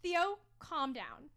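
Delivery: slow, firm command to dog; dominant. Real, not acted. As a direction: lay down the law, slowly. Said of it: "you were so dominant just then".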